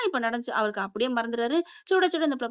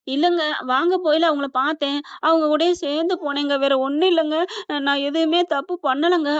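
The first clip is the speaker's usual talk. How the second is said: louder, insistent pleading; cowering plea; 3 semitones higher, 5 dB louder than usual. Acted. Wife explaining herself to her angry husband, cowering plea. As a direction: plead your innocence, drawing out the last words. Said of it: "அப்படின்னு பம்முது".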